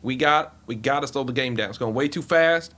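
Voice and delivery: lightly voiced blustering team owner; a hint of a folksy, insistent owner; Jerry Jones impression. Team owner lecturing the commissioner at a meeting, lightly put-on owner voice. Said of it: "the Jerry Jones wasn't bad".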